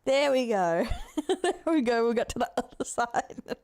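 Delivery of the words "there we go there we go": laughing. Real, not acted. Laughing reaction to clip.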